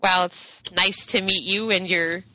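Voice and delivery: lightly voiced posh shopkeeper, politeness slipping slightly; halting, polite sales patter, a touch strained; faltering politeness. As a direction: keep up nice manners while faintly put off. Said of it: "it kinda just, like, falters ever so slightly".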